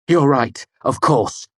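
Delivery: loud, high sarcastic concession; scathing. A narrator's reading. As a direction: drip with sarcasm. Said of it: "I said scathingly".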